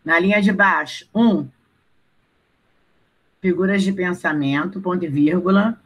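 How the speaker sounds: slow, spaced-out dictation; dictating. Acted. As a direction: dictate each phrase so students can write. Teacher dictating to class.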